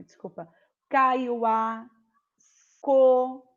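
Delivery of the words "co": "Co" said loud with a hard K sound; clear syllable. Shown as a demonstration. Teacher sounds out the syllable for pupils. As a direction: sound out "Co" crisply. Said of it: "que é o K e o O".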